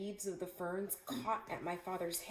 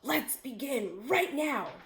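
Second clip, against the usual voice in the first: a lightly louder chorus of tigers; hungry tigers roaring together, only mildly; mock roar; 4 semitones higher, 4 dB louder than usual. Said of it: "said together in a loud roar".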